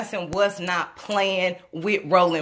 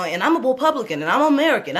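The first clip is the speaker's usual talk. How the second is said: higher, puffed-up mock of a proud speaker; mocking the brother; 5 semitones higher, faster than usual. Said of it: "you got the brother talking like this".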